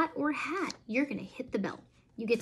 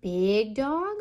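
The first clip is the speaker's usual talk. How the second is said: louder, broad and heavy "big dog"; 4 dB louder than usual. Shown as a demonstration. Mom showing how to voice "big dog" so her son hears size, booming. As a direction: make "big dog" sound big and loud. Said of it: "change the inflection of my voice to try to show".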